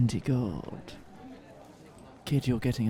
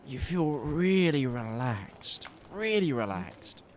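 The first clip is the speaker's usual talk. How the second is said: slow, soothing narration; slower than usual. Acted. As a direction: lull them, drawn out. DM describes calming effect.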